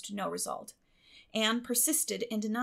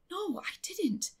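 solemn; 10 semitones higher, slower than usual. A narrator's reading. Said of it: "said Anne solemnly".

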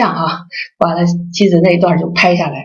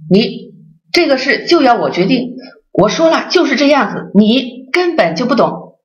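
imitating a domineering wife, pitched higher; mock-bossy orders, rising to a sharp "出去"; 5 semitones higher than usual. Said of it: "就是那种，那种腔调啊". (模仿妻子粗声大气地发号施令)

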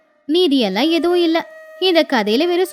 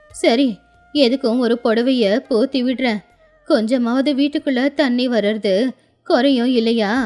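put-on troubled old grandmother; 3 semitones lower than usual. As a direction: lament wearily as an old village grandmother. Old woman's lament in story.

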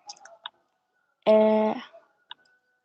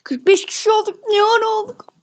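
surprised; 6 semitones higher than usual. Real, not acted. Shocked at viewer count.

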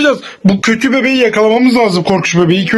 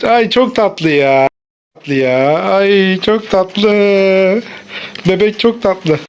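cooing; 3 semitones lower, much slower than usual. Pretend. Cooing over the cute baby doll.

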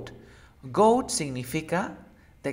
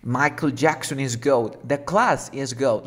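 emphatic example; 8 dB louder, slower than usual. Acted. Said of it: "puedes decir".

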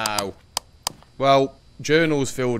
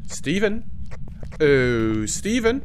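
sing-song calling; 3 semitones higher, much slower than usual. Real, not acted.

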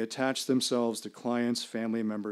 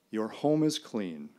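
solemn pronouncement. Retold or imitated. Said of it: "I pronounce".

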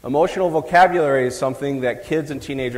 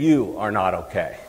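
"You are not okay" lower with weight on "You"; stress on you; 5 semitones lower than usual. Shown as a demonstration. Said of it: "There's a big difference between saying".

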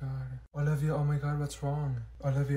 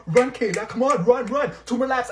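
imitating coach; 7 semitones higher, 8 dB louder than usual. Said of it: "the coach would be like".

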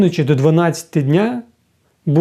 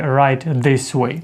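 slow hostess phrase; much slower than usual. Retold or imitated. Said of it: "хостес може вам сказати".

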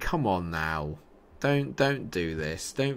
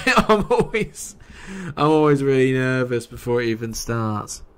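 slipping into a northern English accent; light northern English lilt; a bit northern; 3 semitones higher, 5 dB louder than usual. Real, not acted. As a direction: let a slight northern twang creep in. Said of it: "Why am I going a bit northern?".

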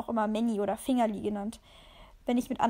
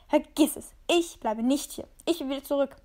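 louder, insistent protest; calling out; 4 dB louder than usual. Acted. The cat calls out to Kyle, refusing to stay. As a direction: call it at him, refusing. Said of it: "rief ich Kyle an".

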